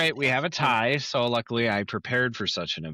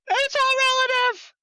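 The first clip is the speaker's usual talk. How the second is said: mock shout; 5 dB louder, faster than usual. Rachel shouting the answer.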